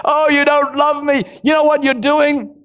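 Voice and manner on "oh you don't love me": mock whine. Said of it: "self-pity".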